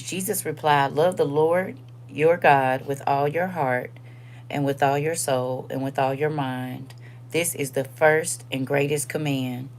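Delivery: earnest Bible reading; scripture reading. Acted. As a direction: read the verse with weight, slowly. Reads scripture aloud.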